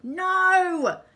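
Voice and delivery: loud, high "no!" of dismay; high-pitched anguished shout; yell. A narrator's reading. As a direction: yell it out in horror. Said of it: "Len yelled".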